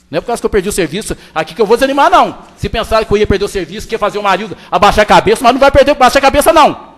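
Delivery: fast, loud outburst at the council; real shouting. Real, not acted. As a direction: rattle it off loud and defiant. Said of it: "se eu tô gritando".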